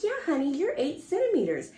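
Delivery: lightly voiced veteran nurse reassuring the mother; calm seasoned nurse. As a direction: gently break the news as an experienced nurse. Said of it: "And she's like".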